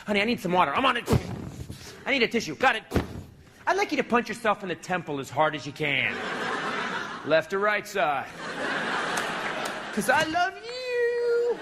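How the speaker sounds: eager puppy answering every order; mock devoted husband. Wife ordering her husband around, he answers in a mock sugary voice.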